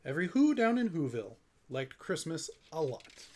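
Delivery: storybook read-aloud, rhyming lilt; story narration. A narrator's reading. Parent reading a Dr. Seuss rhyme to children, storybook lilt. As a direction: read it like a bedtime story to kids.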